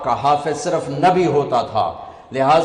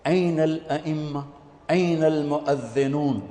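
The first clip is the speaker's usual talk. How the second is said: softer, measured summons; proclamation; 6 dB quieter than usual. Acted. Announcer calls each group on Judgment Day, softened proclamation. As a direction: call each group quietly, with a pause between. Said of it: "تو اعلان ہوگا".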